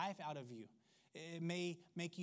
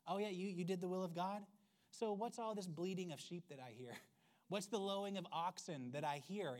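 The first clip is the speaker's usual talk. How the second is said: sarcastic Samuel. Retold or imitated. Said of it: "the way he's a smart aleck".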